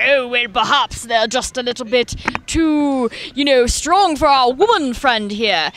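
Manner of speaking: slow, drawn-out mock condescension; condescending court officials. Imitating the court answering a woman, slow patronising voice. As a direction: play the officials slowly talking down to her. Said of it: "and they're like".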